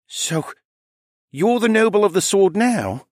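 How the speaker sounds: high-pitched, incredulous dragon son; bewildered young dragon. Acted. Callan questioning his mother about the sword, high and bewildered.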